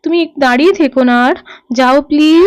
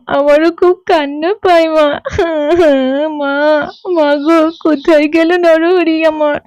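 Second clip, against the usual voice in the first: crying. Acted. Child starts crying too.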